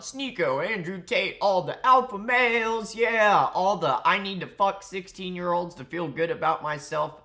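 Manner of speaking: high, loud mocking hype; mock shout-out. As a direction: shout the names out in mock celebration. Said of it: "he shouts out".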